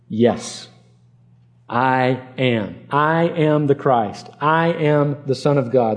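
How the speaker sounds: slow, deliberate declaration with weighty pauses; unequivocal, plain answer. Acted. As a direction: state it plainly, leaving no room for confusion. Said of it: "unequivocally, explicitly, clearly, plainly".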